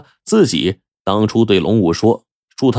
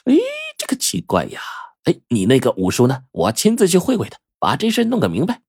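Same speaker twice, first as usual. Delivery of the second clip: curious fortune-teller; 6 semitones higher than usual. Acted. Fortune-teller speaks in story.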